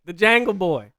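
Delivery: put-on loud, high "Jangle Boy" with jungle turned jangle; imitated "Jangle". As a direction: belt out "Jangle Boy" with relish. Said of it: "I like that".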